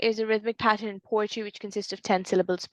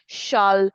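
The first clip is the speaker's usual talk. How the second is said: "shall" said alone with effort, louder; stressed shall; 6 dB louder than usual. Shown as a demonstration. Teacher showing a classmate a stressed syllable. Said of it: "lips touch each other as you're saying it".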